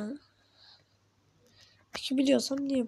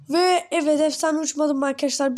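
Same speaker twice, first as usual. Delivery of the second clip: excited; 4 semitones higher, 4 dB louder than usual. Real, not acted. Failed jump reveal.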